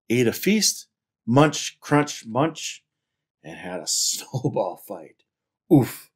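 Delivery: animated picture-book reading; story narration. A narrator's reading. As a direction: read it out to children with lively emphasis. Reads picture book aloud.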